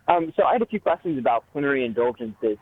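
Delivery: muffled phone voice; speaking away from the phone. Real, not acted. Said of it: "you're very muffled".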